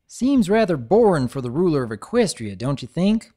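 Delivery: doubtful country pony; lightly voiced farm mare; Applejack voice. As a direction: skeptical folksy question.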